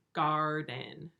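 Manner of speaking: garden drawn out over two syllables; sounds stretched out. Shown as a demonstration. Teacher asking pupils to say it, drawn out. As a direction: stretch garden into "gaar-den". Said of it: "Say it".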